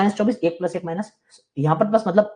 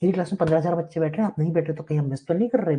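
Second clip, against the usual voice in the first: lightly voiced brisk big-batch teacher, fast; imitating the teacher; 2 semitones higher than usual. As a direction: rattle it off like a teacher calling roll. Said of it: "फिर teacher सुबह आके बोलेगा".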